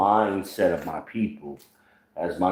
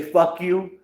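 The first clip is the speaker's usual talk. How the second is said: northern bluntness; 10 semitones higher than usual. Retold or imitated. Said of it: "when we say".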